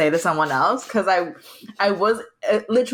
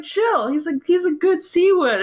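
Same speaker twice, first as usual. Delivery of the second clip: excited; 11 semitones higher than usual. Retold or imitated. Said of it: "I'm like".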